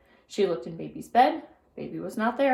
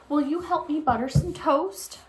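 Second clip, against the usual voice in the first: sweet hostess; 7 semitones higher than usual. A narrator's reading. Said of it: "asked Missus Watson".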